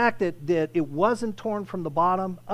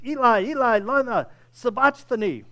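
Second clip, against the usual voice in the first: crying out the words high and loud; anguished loud cry to heaven; 5 semitones higher, 5 dB louder than usual. Acted. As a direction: call it out like a man in agony on the cross. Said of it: "cried out in a loud voice".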